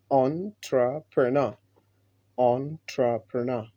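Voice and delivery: entrepreneur slowly as "on-tra-puh-nah"; teacher drills entrepreneur; model word. Shown as a demonstration. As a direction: repeat entrepreneur slowly for learners. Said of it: "this is how we pronounce the word".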